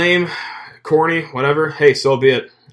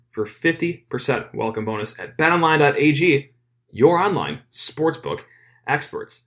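punchy podcast ad read with stretched key words; sponsor ad read; 3 semitones higher than usual. Acted. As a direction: sell it with lively, swinging pitch. Host reads sponsor ad.

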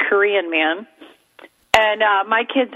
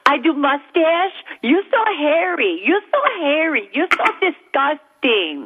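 mock broken-English Asian lady accent, higher and slower; Asian manicurist impression; 5 semitones higher than usual. Comic retelling of the waxing lady's scolding, in a mock Asian lady accent. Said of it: "she always looks at me and she goes".

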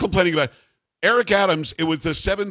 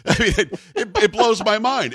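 laughing disbelief; 8 semitones higher than usual. Real, not acted. Host amused by mayor's complaint.

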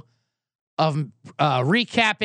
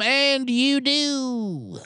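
slow aside; 7 semitones higher, much slower than usual. Acted. Joke inside the ad read.

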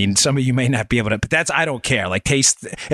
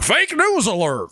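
slow, higher game show call; game show host; 8 semitones higher, slower than usual. Retold or imitated. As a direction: announce it like a quiz show host. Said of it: "your game show voice".

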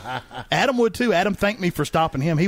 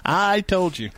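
laughing I told you; 4 semitones higher, slower than usual. Retold or imitated. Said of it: "I was like".

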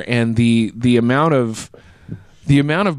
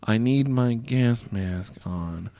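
muttered frantic aside; 6 semitones lower, 7 dB quieter, much slower than usual. Retold or imitated. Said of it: "What is this call about?".

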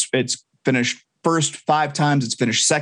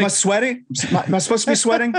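high, fast wrestler promo voice; hammed-up wrestling promo brag; Ric Flair impression; 8 semitones higher, much faster than usual. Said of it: "You know Ric Flair".

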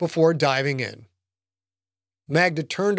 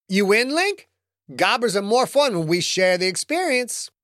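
higher, sassy roommate voice; sassy woman voice; 5 semitones higher than usual. Acted. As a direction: voice her cool and impressed. Magda's dialogue, higher.

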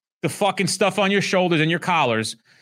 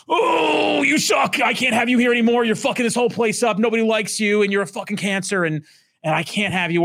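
high furious shout at a bad employee; angry yelling boss; 7 semitones higher than usual. Boss firing a toxic employee, shouting high and furious. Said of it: "I'm like".

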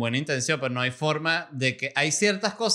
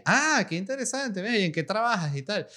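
friendly officer; 7 semitones higher than usual. Retold or imitated. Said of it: "el tipo fue súper amable".

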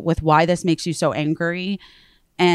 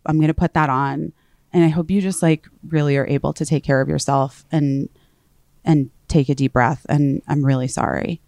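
calm consoling; 3 semitones lower than usual. Retold or imitated. Consoling an upset caller.

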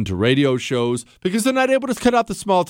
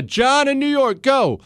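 higher, snappy call-in cue; brisk host cue; 11 semitones higher, slower than usual. Pretend. Host putting a caller on air, higher and brisk. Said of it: "I say".

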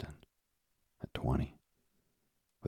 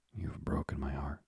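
whispering. Acted. Father moved by son's grief.

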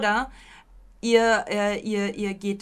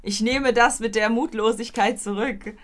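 mock surrender; 9 dB louder than usual. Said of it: "Du musst jetzt Ja sagen".

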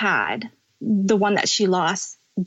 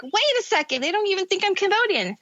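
higher, quicker dawning shock; sudden, higher disbelief; surprised; 9 semitones higher, faster than usual. Retold or imitated. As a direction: recall a startled realization. Realizing she's seen as foreign.

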